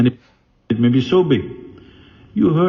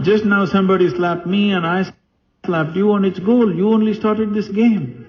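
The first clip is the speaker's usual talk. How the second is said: higher, brisk queen brushing off her husband's anger; the queen voice, higher and quick, as if he's being silly; higher, lightly mocking queen putting her emperor in his place; queen scolding; 7 semitones higher than usual. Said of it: "The queen said".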